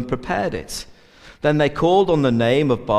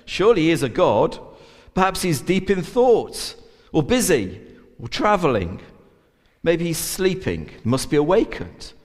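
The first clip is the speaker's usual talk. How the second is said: taunting; 4 semitones higher than usual. Retold or imitated. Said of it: "Elijah began to taunt them".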